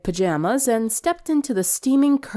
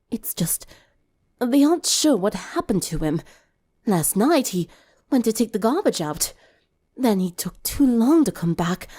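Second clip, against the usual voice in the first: weary Octavia. Acted. Octavia voiced, upset after long night.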